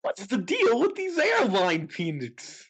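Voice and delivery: a light Seinfeld bit in his own voice; Seinfeld impression. Answering the guess with a Seinfeld line.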